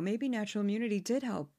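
a light, bland newsreader take, slightly quick; barely voiced flat anchor read; Dana Perino voice. Mocking a Fox host, a lightly voiced bland anchor. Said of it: "My Dana Perino".

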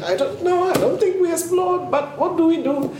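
sisters' voice. Retold or imitated. Sisters' helpless reply retold.

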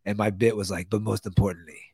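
bad Middle Eastern accent, hammed; hammy Middle Eastern accent as a terrorist trainer; terrible Middle Eastern accent. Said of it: "I do my terrible Middle, Middle Eastern accent".

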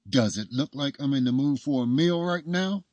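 irritated, high and loud, teeth gritted; through gritted teeth. A narrator's reading. Woman in labor refusing a meal, through gritted teeth. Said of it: "she said through gritted teeth".

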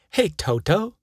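high call from behind; crying out. A narrator's reading. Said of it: "cried a mushy man from behind".

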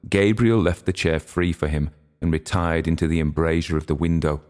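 ordinary delivery, nothing marked

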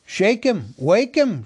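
loud, high impatient shouting. Acted. Elves shouting impatiently at the sleeping butler. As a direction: shout at him to get up now. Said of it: "shouted the others impatiently".

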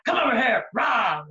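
mock leech. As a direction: pounce with a comic roar. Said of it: "Like a leech".

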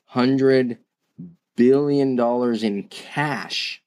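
slowed right down, pausing after "Hundred"; slow emphatic repeat. Real, not acted. Podcaster repeating Apple's cash figure so it sinks in, slow and deliberate. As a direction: spell out "Hundred billion dollars" slowly, word by word for weight. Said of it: "I'm gonna say that slowly and repeat".

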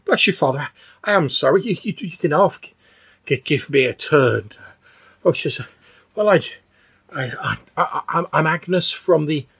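lightly voiced flustered old woman; a hint of a fussy old villager; flustered old churchgoer. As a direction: stammer apologetically as an elderly parishioner. Game master voices old Agnes.

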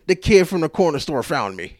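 said through a laugh. Real, not acted. Joking to viewers about being found, laughing.

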